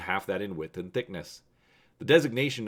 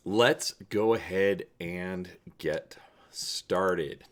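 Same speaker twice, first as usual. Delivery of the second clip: slow, breathy whisper to open the tale; slow conspiratorial storyteller whisper; hushed whisper; much slower than usual. Acted. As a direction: draw them in with a slow whisper. Dramatic hushed start to the story.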